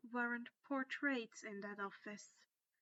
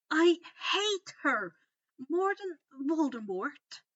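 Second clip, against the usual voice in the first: dark exclamation; 6 semitones higher, 11 dB louder than usual. Acted. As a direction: spit out the hatred. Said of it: "Hermione exclaimed darkly".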